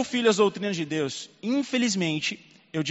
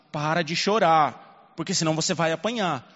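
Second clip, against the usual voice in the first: stern father warning. Retold or imitated. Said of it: "eu falei com ela no carro assim".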